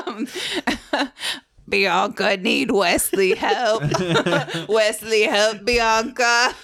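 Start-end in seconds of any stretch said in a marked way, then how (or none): 1.7-6.5 put-on slow, loud childlike monster voice. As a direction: mimic a simple-minded monster slowly. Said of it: "it's her monster voice".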